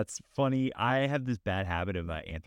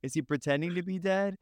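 imitating an anxious kid, pitched up; worried child; 5 semitones higher than usual. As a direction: pester with high, worried questions, like a child. Imitates worried child asking about grasshopper.

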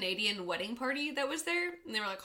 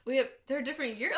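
deadpan mock explanation; 3 semitones higher, faster than usual. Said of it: "Clayton never dropped character".

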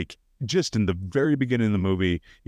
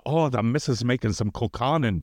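put-on Irish accent. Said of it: "buffoon Irish".

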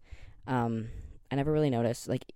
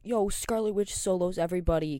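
higher, louder mock fanboy claim; mock hype fan; 6 semitones higher, 4 dB louder than usual. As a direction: sound like a brash fan boasting. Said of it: "the type of person to be like".

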